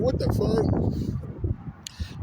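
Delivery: drawn-out, high breathless disbelief; freaked out. Retold or imitated. Man recalling being caught unprepared by a stranger, freaked out. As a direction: stretch it out high, barely voiced, in shock. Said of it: "I was, like, kinda freaked out".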